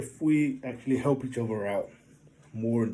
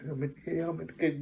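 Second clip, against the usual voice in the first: mock bravado; 3 semitones higher, faster than usual. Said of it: "normal guy thing".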